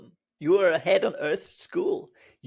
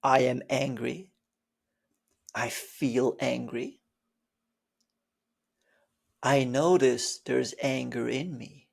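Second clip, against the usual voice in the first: calm stages; 5 semitones lower than usual. Shown as a demonstration. Teacher showing stages of anger calmly. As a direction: step down each stage gently. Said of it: "You notice the stages?".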